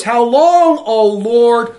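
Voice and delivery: high, loud wailing cry of How long. A narrator's reading. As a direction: cry it out to heaven. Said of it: "they cried out with a loud voice".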